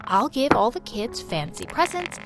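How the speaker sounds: tender mom. Acted. Mother comforting her daughter about her birthday, softly. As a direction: soothe your hurt child.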